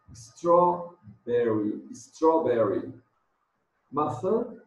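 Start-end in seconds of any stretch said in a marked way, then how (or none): 0.1-2.9 Strawberry stretched very slowly, stressed on straw, long final ee; very slow teacher demonstration of Strawberry; slow modelling. Shown as a demonstration. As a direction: drag Strawberry out syllable by syllable. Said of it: "Vamos treinar a pronúncia".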